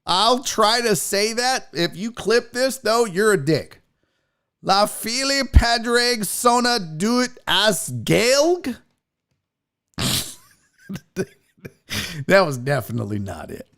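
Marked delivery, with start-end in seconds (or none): 4.6-8.8 slow, halting attempt at Irish; unsure, very white attempt at Irish; botched Irish pronunciation. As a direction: sound out the Irish with an American accent. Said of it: "That was the whitest Irish, uh, pronunciation ever".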